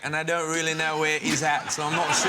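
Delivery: put-on light London Cockney accent. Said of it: "He's so good at the Cockney accent".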